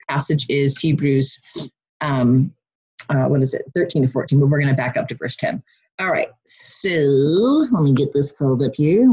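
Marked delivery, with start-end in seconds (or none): 6.0-9.1 alien voice; odd spacey Martian voice. Real, not acted. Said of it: "Why am I talking in a Martian voice?".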